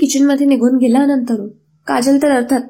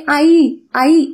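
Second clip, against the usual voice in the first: higher, louder call for mother; 4 semitones higher, 4 dB louder, much slower than usual. Acted. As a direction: shout for mom in shock. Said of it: "असं ओरडू लागते".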